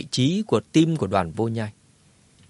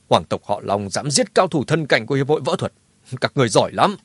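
through gritted teeth. Acted. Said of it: "nghiến răng nghiến lợi nói".

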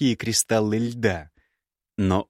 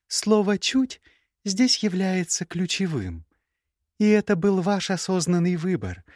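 put-on young woman's voice pitched higher, cool and cutting; higher, cool scornful young woman; Gerda's voice; 9 semitones higher than usual. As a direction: play the proud, scornful ex-bride. Gerda's voice in dialogue.

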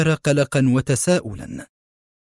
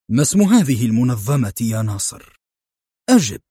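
stern. Acted. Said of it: "قال في صرامة".

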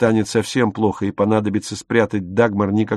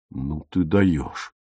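dumbfounded; 5 semitones lower, 5 dB quieter, much slower than usual. A narrator's reading. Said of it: "оторопел Отто".

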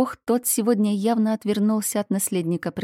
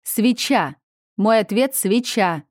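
louder, certain cry of the answer; triumphant shout; 4 semitones higher, 6 dB louder than usual. Acted. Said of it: "кричал Аменхотеп".

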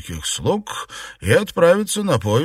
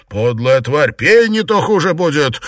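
harsh threat; 4 semitones higher, 6 dB louder than usual. Acted. Liu threatens.

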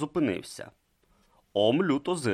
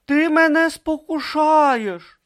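slow accusing protest; 8 dB louder, slower than usual. Acted. Brutha protests.

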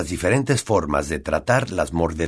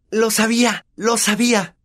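high, triumphant repeat; gleeful I-knew-it. Acted. Hermione finds it. (triunfal y emocionada)

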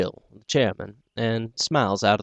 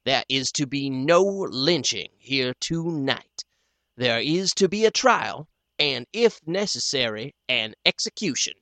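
steady and cool; 3 semitones higher, 4 dB quieter than usual. Acted. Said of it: "steady and cool".

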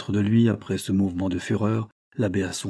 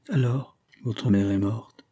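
grieving. Acted. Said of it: "Un nouveau chagrin".

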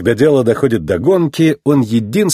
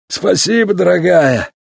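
raised-pitch fond thanks; hearty, loving reply; 7 semitones higher than usual. A narrator's reading. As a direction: answer your wife with affection. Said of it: "с любовью ответил ветеран".

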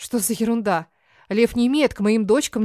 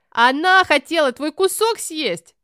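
put-on tattling child; 6 semitones higher, 4 dB louder, slower than usual. Child tells on her sister.

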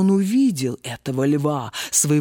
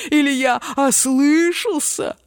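scoffing lion; 4 semitones higher than usual. A narrator's reading. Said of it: "расхохотался лев".

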